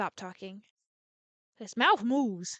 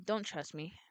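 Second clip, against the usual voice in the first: softly undercut, much softer; quiet aside; 4 semitones lower, 8 dB quieter than usual. Acted. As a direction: drop the voice, mumble it. Laughs after.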